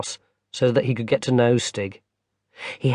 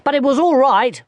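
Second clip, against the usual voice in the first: put-on a young boy explaining; small boy; 12 semitones higher, 4 dB louder than usual. Barney tells his grandmother about his fall, high little-boy voice.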